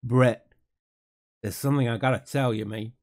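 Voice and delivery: half-hearted attempt at an Australian accent; lightly faked Australian voice, not quite landing it; bad Australian accent. Mother breaking news to her son Brett, poor Australian accent. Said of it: "I can't do an Australian accent".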